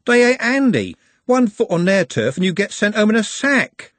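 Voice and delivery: alarmed. Acted. Trev alarmed about rival faces.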